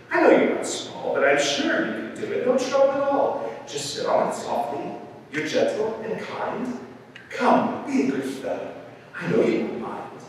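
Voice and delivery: high-pitched wheedling bird voice; coaxing bird. A narrator's reading. Bird persuades elephant to sit on egg, coaxing.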